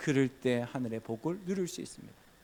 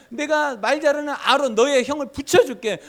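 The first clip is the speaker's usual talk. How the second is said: voicing God; 10 semitones higher, 8 dB louder than usual. God reassuring Moses.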